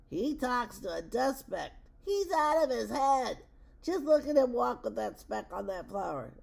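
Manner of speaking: mocking jungle gossip. A narrator's reading. Jungle animals spread news of the elephant, mocking and incredulous. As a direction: scoff loudly like scandalised gossips.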